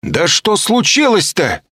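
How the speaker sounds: high, loud, slow confused cry; bewildered shout. A narrator's reading. He shouts, utterly confused, at them all. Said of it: "кричу я, совершенно сбитый с толку".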